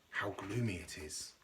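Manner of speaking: quietly voiced starfish in the dark; whispered. A narrator's reading. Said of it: "whispered the starfish".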